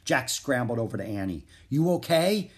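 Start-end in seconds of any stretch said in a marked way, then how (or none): 1.7-2.5 high, loud anxious question; worried cry. A narrator's reading. Jack scrambles over to fallen Annie, worried cry. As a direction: call out in rising concern. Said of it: "he cried".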